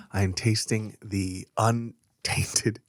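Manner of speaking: slow whispered tasting note; hushed mock sommelier. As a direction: breathe it like a pretentious wine snob.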